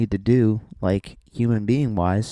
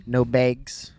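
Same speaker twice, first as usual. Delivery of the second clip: "bags" said as "begs", Canadian style; Canadian accent. Acted. Repeating it for wife, Canadian accent. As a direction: put a Canadian raised vowel in "bags". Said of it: "That's how Canadian people say bags".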